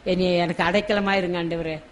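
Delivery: softly spoken plea to God; pleading prayer. Acted. Preacher models a tearful plea to the Lord, softly pleading. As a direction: pray it gently, as a humble request. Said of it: "கர்த்தர்ட்ட நம்ம கண்ணீரோடு கேட்போம்".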